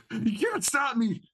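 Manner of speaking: high, slow mock taunt laughing; laughing imitation. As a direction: parrot the taunt back with a laugh.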